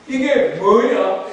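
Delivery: slow, stretched puzzled question; puzzled wonder. Acted. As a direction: ask it drawn out, mildly baffled. People first see the manna.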